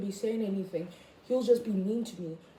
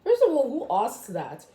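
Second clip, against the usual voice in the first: sassy offended; 4 semitones higher, 4 dB louder than usual. Retold or imitated. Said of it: "I was just like".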